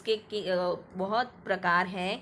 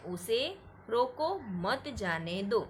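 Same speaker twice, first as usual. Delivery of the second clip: रोको raised and set apart from मत जाने दो; pause after रोको; 2 semitones higher than usual. Shown as a demonstration. Teacher demonstrates the comma, breaking after रोको. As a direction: lift रोको, then go on to मत जाने दो. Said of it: "यहाँ पे हमें थोड़ी देर के लिए रुकना पड़ता है".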